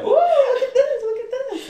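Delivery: high, loud giggly squeal; giggling. Retold or imitated. Auntie Doris giggling at the chair massager, high and squealing. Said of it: "she was giggling and laughing away".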